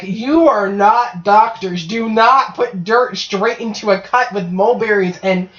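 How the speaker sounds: slow, emphatic mock outrage; melodramatic scolding. Doctor telling off kids who played doctor, melodramatic. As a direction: spell it out word by word, imitating an exasperated doctor. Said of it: "he's a very melodramatic man".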